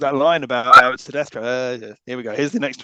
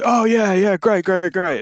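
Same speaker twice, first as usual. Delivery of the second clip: mock enthusiasm; 5 semitones higher, 5 dB louder, slower than usual. Mocking film crowds' fake agreement.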